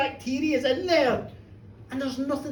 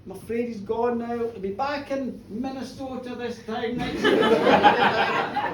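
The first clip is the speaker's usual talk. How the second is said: put-on old fisherman; 2 semitones lower, slower than usual. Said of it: "wee fishermen from the Clyde who went".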